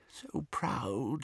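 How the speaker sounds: muffled, rising with pride. A narrator's reading. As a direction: echo it, swelling with admiration. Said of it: "his voice was muffled".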